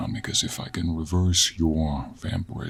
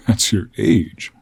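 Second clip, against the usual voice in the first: loud, drawn-out, higher-pitched disbelief; astonished; 3 semitones higher, 7 dB louder, slower than usual. Acted. Man learns the lady's age, astonished. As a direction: blurt it out loud, stretching the words. Startled to hear her age.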